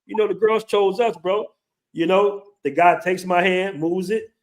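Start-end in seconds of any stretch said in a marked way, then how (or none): 0.0-1.5 retold pleading. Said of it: "I'm like".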